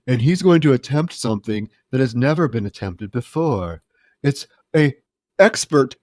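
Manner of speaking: deliberate, measured mock broadcast; monotone newscaster. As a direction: imitate a droning news reporter. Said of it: "you're right, it's so monotone".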